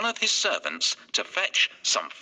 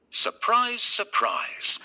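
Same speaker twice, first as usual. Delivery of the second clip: bright, high teasing "surprise, surprise"; playful surprise; 10 semitones higher, slower than usual. A narrator's reading. Narrator delighting children with a twist, playfully. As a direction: sing it out like a storyteller's reveal.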